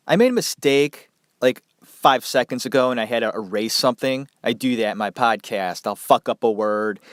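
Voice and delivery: stuffy head cold voice; talking through a stuffed-up nose; blocked nose. Real, not acted. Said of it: "I sound like I'm either underwater or I have a pillow over my nose".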